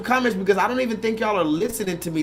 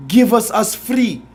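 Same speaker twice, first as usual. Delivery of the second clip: mock Amistad accent; 5 dB louder than usual. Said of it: "yeah, you're gonna talk like that".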